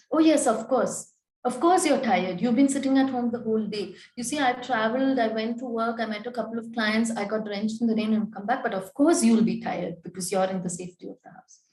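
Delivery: a light touch of sarcasm aimed at the partner; sarcastic. Shown as a demonstration. A counsellor demos a mildly sarcastic jab at the partner. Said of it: "Being sarcastic".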